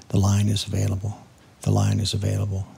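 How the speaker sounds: repeating while fading away. Retold or imitated. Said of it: "fading out".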